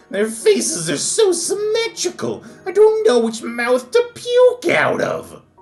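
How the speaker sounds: very high, slow video-game cartoon voice. Trying out a voice for a listener, speaker delivers the line in a cartoonish character voice. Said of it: "Sounds like straight out of a cartoon or video game".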